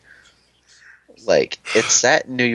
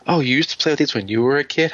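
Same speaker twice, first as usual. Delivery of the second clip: a hint of a little kid, higher pitch; imitated five-year-old; 5 semitones higher than usual. Imitating young cousin asking about the toys, light kid voice. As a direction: lightly mimic a child's wondering question. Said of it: "Matthew, his name's five".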